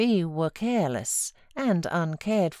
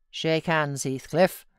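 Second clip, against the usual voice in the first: condescending. Acted. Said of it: "said Mister Earnshaw condescendingly".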